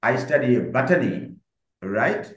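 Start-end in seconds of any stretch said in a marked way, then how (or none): 0.0-1.1 very slow, clear model sentence with the stress on botany. Shown as a demonstration. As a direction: spell it out slowly for the class and lean on botany. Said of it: "এভাবে আপনাকে বল-, বলতে হবে".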